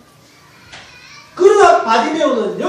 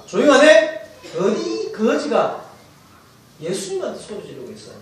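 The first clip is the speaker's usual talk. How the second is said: mild scolding of a beggar; a touch of indignant rebuke; 3 semitones lower than usual. Acted. Crowd rebuking the blind beggar, mildly scolding. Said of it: "많은 사람들이 꾸짖어".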